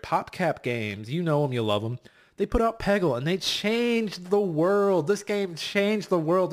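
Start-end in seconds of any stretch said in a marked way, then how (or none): 2.4-6.5 slow, higher, louder grand proclamation; epic announcer. Acted. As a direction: proclaim it like a movie trailer. Mock epic praise of Peggle.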